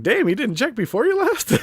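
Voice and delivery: high, loud mock disbelief; incredulous outburst. A reviewer yelling at the crew for not checking the air, incredulous and loud. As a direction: shout it like you can't believe they forgot. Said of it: "I'm like".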